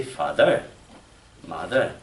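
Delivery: "father", "mother" weighted on the last syllable; fa-THER, mo-THER, lifting at the end; French-style end accent. Shown as a demonstration. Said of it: "That is the French way".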